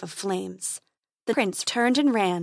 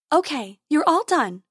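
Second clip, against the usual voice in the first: higher fairy voice; cheerful dentist finishing up; light fairy voice; 6 semitones higher, 3 dB louder than usual. A narrator's reading. Dentina telling Fred he is done, light high voice.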